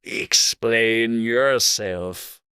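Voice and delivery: slow, drawn-out stern command. A narrator's reading. Caterpillar demanding that Alice explain herself, stern. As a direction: order it sternly, stretching each word. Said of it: "said the caterpillar sternly".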